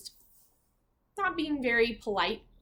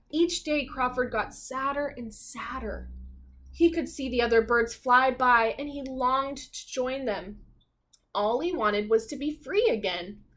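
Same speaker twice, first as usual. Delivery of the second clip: lively, expressive storybook narration; reading to children; 4 dB louder than usual. A narrator's reading. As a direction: read it like a bedtime picture book.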